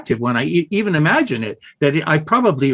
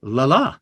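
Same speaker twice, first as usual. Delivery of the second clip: la la with the second la heavier; weak strong la la. Shown as a demonstration. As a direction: land on the second la. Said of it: "is the beat".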